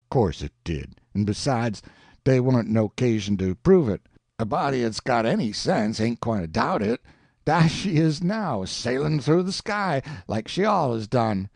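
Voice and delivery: earnest Jim. Acted. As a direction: lay down the proof like plain common sense. Jim voiced again.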